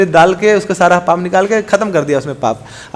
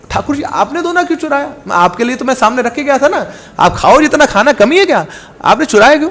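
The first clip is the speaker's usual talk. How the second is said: indignant questioning; 6 semitones higher than usual. Acted. Priest questioning the deity, indignant.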